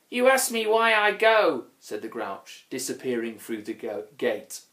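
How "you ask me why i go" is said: high, loud, plaintive troll; sad little troll. A narrator's reading. Grouch answers why he is leaving, high and plaintive. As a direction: lament it in a high voice.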